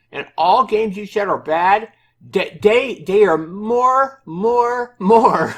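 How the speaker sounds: high, loud mock developer voice, drawn out; developer's voice. Mocking the developer's grammar in a high, loud voice, breaking into laughter. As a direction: stretch each repeated word in a high put-on voice. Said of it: "try to read this in his, in his voice".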